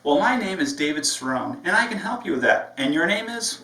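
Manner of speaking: bright cheerful offer to help; friendly, eager to help; upbeat and positive. Shown as a demonstration. Trainer voices the receptionist, upbeat and positive. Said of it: "I'm upbeat, I'm positive".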